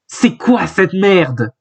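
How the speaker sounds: full-voiced outburst. Reader voicing a startled character at full voice, drawn-out exasperation. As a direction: stretch it out in acted disbelief. Acted line, before mother's complaint.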